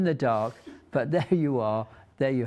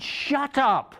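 much higher, sharp rebuke of "Shut up"; retold booming voice of God; 11 semitones higher, 4 dB louder than usual. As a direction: snap it out as a stern divine voice. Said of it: "I did get a booming voice once".

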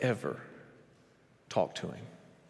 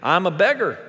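hammed-up beggar; 5 semitones higher, 6 dB louder than usual. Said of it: "He could have said".

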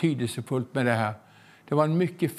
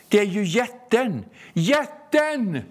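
excited realisation; 6 semitones higher than usual. Retold or imitated. Villagers realise the solution.

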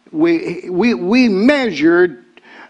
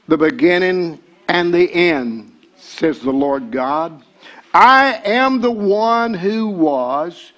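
solemn scripture recitation; scripture reading. Retold or imitated. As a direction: proclaim it like God speaking. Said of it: "it says it like this".

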